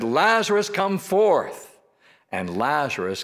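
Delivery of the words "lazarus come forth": loud, high commanding call; lifted voice. Retold or imitated. Jesus calling Lazarus out of the tomb, lifted voice. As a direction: raise the voice to summon someone from afar. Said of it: "he lifted his voice and he said".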